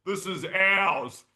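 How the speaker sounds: hammed-up territorial boast cracking into laughter; mock Bra Boys claim. Joking about the Bra Boys claiming their break, laughing mock boast. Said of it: "they were like".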